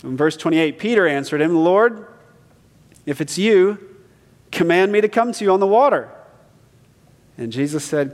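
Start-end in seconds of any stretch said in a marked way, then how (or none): 1.5-6.1 loud, high call across the water. Acted. Peter calls to Jesus across the waves, loud and high. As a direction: Peter shouting to Jesus from the boat.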